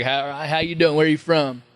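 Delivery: put-on easygoing greeting in a Southern accent; Matthew McConaughey. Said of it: "he's got that accent".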